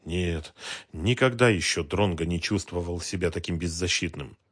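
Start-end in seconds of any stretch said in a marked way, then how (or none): none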